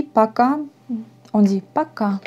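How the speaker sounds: пока said paka with the final A stressed; accent sur le dernier A de пока; stress on last A. Shown as a demonstration. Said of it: "l'accent sur le dernier A".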